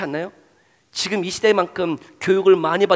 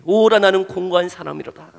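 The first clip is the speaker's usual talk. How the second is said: mild lament; 3 semitones higher, 5 dB louder than usual. Acted. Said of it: "절규하는 이 절규".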